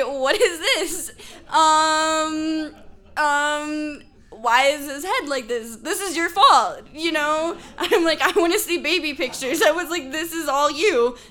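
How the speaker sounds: high, loud, laughing accusation; laughing mock yell. New mother blaming boyfriend for baby's head, laughing yell. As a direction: act out yelling at him, cracking up. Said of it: "And I'm yelling at him".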